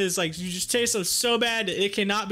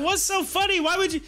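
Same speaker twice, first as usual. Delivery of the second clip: high, incredulous questioning; baffled retold protest; 8 semitones higher than usual. Grandchild to grandma who is cracking up, incredulous. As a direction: act out being put out by the laughter.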